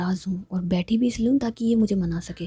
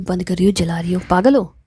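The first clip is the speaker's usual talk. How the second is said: louder, fed-up scolding; annoyed louder outburst; 3 semitones lower, 8 dB louder than usual. Acted. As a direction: snap at her friend, louder now. Eliyas irritated at lights.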